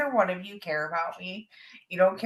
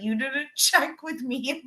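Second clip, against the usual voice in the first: laughing mock yell; 4 semitones higher, slower than usual. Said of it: "I was like".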